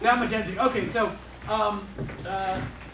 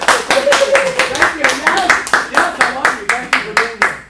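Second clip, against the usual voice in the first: excited welcome; 4 semitones higher, 10 dB louder, much slower than usual. Acted. Host greets guest with over-the-top welcome.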